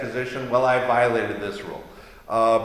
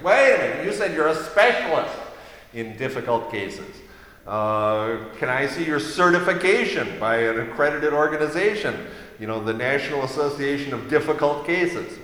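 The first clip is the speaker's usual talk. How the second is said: mock stern bar officials; 3 semitones higher than usual. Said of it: "took a look at everything and said".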